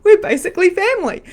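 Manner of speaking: squealing high and loud with laughter; high-pitched delighted squeal with laughs; excited, delighted. Retold or imitated. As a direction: shriek it happily, laughing, way up high. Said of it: "I'm like".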